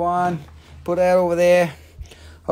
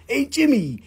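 joking Jersey pizza-counter order; put-on Jersey accent. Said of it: "I ain't got no Jersey accent".

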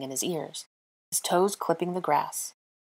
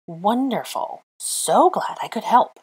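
slow, loud words through clenched teeth; 4 semitones higher, 5 dB louder, slower than usual. Acted. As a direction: bite it out, shivering with cold. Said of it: "Her teeth were clenched".

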